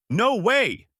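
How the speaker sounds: high-pitched cry of disbelief; amazed yell. A narrator's reading. Koby watching Alvida fly away, amazed high yell. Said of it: "Koby yelled out".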